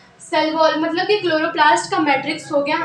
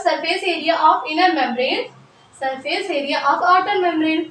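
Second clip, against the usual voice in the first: slow dictation; much slower than usual. Shown as a demonstration. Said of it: "dictating notes slowly".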